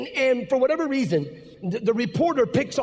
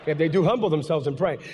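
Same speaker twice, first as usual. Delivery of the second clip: sarcastic; 5 semitones lower than usual. Retold or imitated. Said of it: "my California sarcasm".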